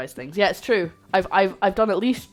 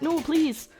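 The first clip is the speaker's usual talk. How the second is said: high, loud, slow mock plea; hammed-up desperate appeal; mock pleading; 9 semitones higher, 6 dB louder, slower than usual. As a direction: beg theatrically to be believed. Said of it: "And I'm like".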